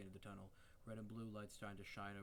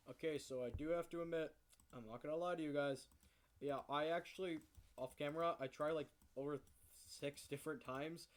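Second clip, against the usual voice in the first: higher and louder, eager to tell; excited confession; 3 semitones higher, 6 dB louder than usual. Real, not acted. Admitting to the guys about the walkthrough, higher and louder. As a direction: spill it to the guys, worked up.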